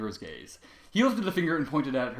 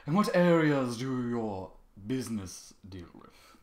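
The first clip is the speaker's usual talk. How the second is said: prim; much slower than usual. Acted. Prim foal questions.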